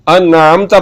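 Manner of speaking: अनअमता with a squeezed throat sound before 'amta'; throaty ain. Shown as a demonstration. Teacher modelling the reading, throaty ain. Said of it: "यही गलती आ गई ऐन और हमजा की".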